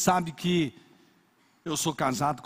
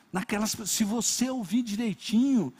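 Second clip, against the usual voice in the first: usual speaking voice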